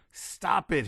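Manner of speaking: high-pitched scream. A narrator's reading. General screaming at the Martian spirits. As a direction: shriek at the spirits to stop. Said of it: "he screamed".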